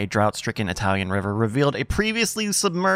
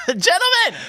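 booming call. Acted. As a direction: call them in like a chief. Calling the Stooges to action.

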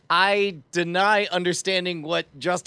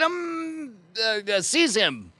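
rallying command; 6 semitones higher, slower than usual. Acted. Acting out ordering an arrest.

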